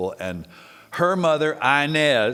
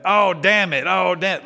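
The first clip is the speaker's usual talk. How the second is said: put-on higher, louder grumbling old woman; Granny's greeting; 7 semitones higher, 6 dB louder than usual. Grandma cursing as the grandkids arrive, higher and louder. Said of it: "that was our greeting to her home".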